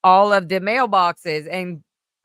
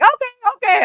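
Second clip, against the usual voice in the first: squeaky okay; 6 dB louder, faster than usual. Retold or imitated. Eager compliance, squeaky high.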